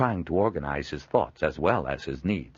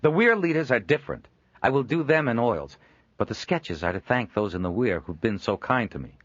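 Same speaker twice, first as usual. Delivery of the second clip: snapping retort; 5 semitones higher than usual. Acted. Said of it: "almost bit Leopold's nose off".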